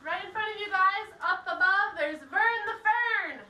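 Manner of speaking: loud tour guide voice; projecting to a group. Real, not acted. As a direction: speak up so the whole group hears.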